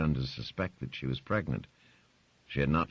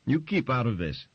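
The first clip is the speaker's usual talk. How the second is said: high, loud order; angry snap; 9 semitones higher, 4 dB louder than usual. Acted. Grace telling Barbara to keep out, high and loud. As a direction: cut her off sharply.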